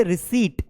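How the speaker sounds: "रिसीट" as ri-SEET, silent p; teacher's model "रिसीट", ending on a plain t; correct pronunciation. Shown as a demonstration. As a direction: say रिसीट with a long "ee" and no p. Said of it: "वो रिसीट है".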